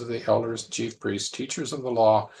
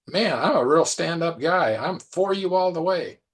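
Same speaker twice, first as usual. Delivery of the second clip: higher, insistent pleading, loud in bursts; acted-out eager pledge; earnest protest of loyalty; 5 semitones higher, 4 dB louder than usual. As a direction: plead your loyalty like a wounded friend. Acting Peter proclaiming his loyalty.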